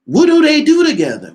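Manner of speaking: shrieking disbelief. Real, not acted. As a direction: scream the question in disbelief. Incredulous rant resumes.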